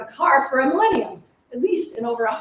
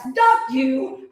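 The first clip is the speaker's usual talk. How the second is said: louder angry curse; all-caps curse; 4 dB louder than usual. Acted. Cursing the captors in all caps. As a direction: spit it in capitals. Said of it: "all caps".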